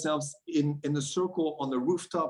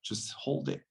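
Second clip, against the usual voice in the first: soft whisper; 6 dB quieter than usual. Retold or imitated. Circle leader softly guiding.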